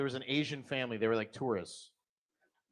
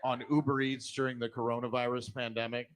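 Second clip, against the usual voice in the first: TV ad voice; 3 semitones lower than usual. Retold or imitated. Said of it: "ads on T V".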